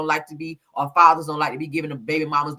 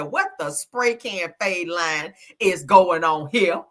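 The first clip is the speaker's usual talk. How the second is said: 1 slow quote; much slower than usual. Retold or imitated. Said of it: "Somebody said".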